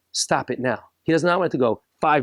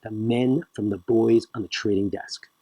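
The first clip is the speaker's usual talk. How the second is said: slow tough talk; 3 semitones lower, 4 dB quieter than usual. Retold or imitated. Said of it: "That's the way they talk".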